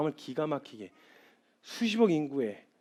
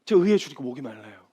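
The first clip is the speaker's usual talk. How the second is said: humble prayer; 2 semitones lower, 5 dB louder than usual. Shown as a demonstration. Believer praying honestly to God, humble earnest prayer. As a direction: pray it simply, not proclaiming. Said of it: "하나님".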